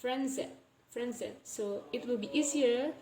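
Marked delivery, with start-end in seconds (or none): 0.1-1.3 "friendzen" run together as one word; linked pronunciation. Shown as a demonstration. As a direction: join the s to the ending in "friendzen". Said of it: "So we pronounce it as".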